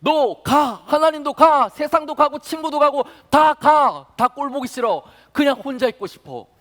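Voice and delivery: high, loud despairing yell; anguished shout. Acted. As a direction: cry out at everyone to leave you alone. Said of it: "탄식하는 그 목소리가".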